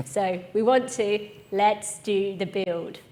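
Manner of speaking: lightly done slow quiz host buildup; a hint of drawn-out game show tension; Chris Tarrant voice. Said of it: "in my best Chris Tarrant voice".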